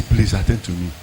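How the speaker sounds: low, soft begging; pleading. Retold or imitated. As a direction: imitate a subdued plea to an official. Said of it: "the person I was begging".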